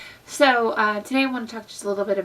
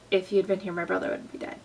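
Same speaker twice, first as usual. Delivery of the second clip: emotional, upset; faster than usual. Retold or imitated. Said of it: "Mary's way more emotional. She's down on the ground. She's upset".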